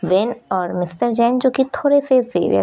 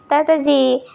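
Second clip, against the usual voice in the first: put-on child calling out to grandpa, higher and bright; excited child call; 6 semitones higher, slower than usual. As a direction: run in and call grandpa happily.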